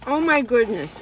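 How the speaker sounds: delighted, rising-then-falling exclamation; excited gasp. Real, not acted. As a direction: gush over the food. Excited at McDonald's arrival.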